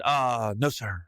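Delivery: low, composed and polite answer; suddenly calm. Retold or imitated. Fan answering cop at the door, suddenly low and calm. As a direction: drop your pitch and act real calm. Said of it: "I'm, like, real calm now".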